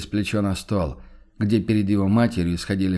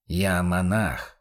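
smiling; 3 semitones lower, much slower than usual. A narrator's reading. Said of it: "пояснил Бруно с улыбкой".

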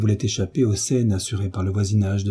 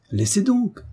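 sour; 11 semitones higher, slower than usual. A narrator's reading. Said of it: "dit aigrement la marquise".

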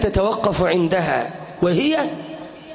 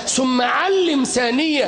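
ordinary talk

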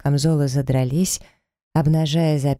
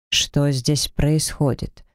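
demanding; much slower than usual. Acted. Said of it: "требовательно спросил Лентист".

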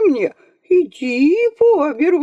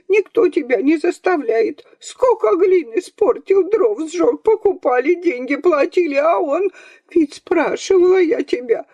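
put-on much higher scolding old woman; grandmother shouting; 9 semitones higher than usual. A narrator's reading. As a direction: berate him shrilly from the bed. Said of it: "с кровати кричала".

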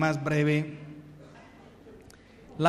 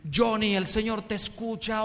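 loud, higher preacher's call to the sick man; hammed-up faith healer; 4 semitones higher, 4 dB louder than usual. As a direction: play the showy TV healer summoning Johnny. Gebedsgenezer roept zieke naar voren.

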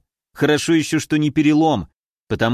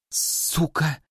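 exhaled curse; 7 dB quieter than usual. Acted. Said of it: "выдохнула она".

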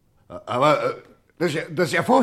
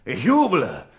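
slow, stammering delight that bursts out louder; overjoyed stammer; 4 dB louder, slower than usual. Acted. Gang boss overjoyed at the story machine plan, stammering delight. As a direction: savor each word, choked with joy.

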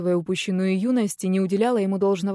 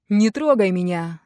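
louder, a sharp yell; 4 dB louder than usual. Acted. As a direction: yell at her to let go. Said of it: "заорал он".

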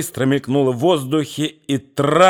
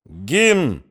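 lone hesitant shout; 2 semitones higher than usual. Acted. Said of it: "крикнул вдали одинокий, неуверенный голос".

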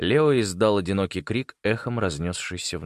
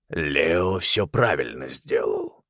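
lightly voiced uncle, calm, slow; 3 semitones lower, much slower than usual. A narrator's reading. Uncle Malcolm voice.

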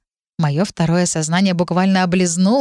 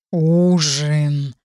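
low, drawn-out contented inner dragon; blissful drawn-out dragon; 4 semitones lower than usual. A narrator's reading. Inner dragon anticipating a meat dinner, blissfully drawn out. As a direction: savour the word like a pleased dragon. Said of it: "благостно протянул внутри драконища".

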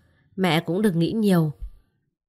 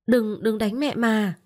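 put-on frightened child begging; 4 semitones higher, slower than usual. Child begs father to stop.

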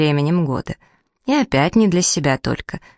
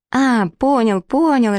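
high, joyful squeak, much higher pitch; 7 semitones higher, slower than usual. Acted. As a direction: squeal it out with delight like a happy little boy. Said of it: "радостно запищал принц". (радостный писк, намного выше)

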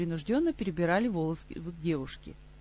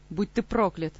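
furious, louder, through gritted teeth; 6 dB louder than usual. Acted. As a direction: spit a curse through clenched teeth. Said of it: "скрипнул зубами разгневанный".

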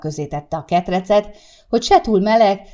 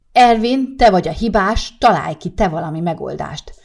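bossy demand; 2 semitones higher, 6 dB louder than usual. Acted. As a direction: blame him and demand a fix. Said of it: "tette Sárika csípőre a kezét". (csípőre tett kézzel, hangosan követelőző feleség)

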